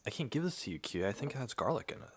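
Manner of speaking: high, coaxing voice for a cat; pet talk. Real, not acted. Talking to her cat Kiwi, high pet voice. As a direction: coo it at the cat.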